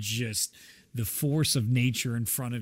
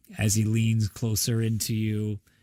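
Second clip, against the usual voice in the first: normal talking voice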